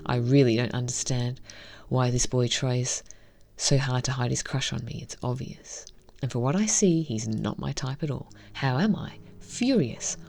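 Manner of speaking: reading a visual novel story aloud, evenly; story narration. Acted. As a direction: narrate the scenes and voice the heroine lightly.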